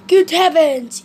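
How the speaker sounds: busybody shocked to find his neighbour still in bed; surprised exclamation. Acted. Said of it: "he said".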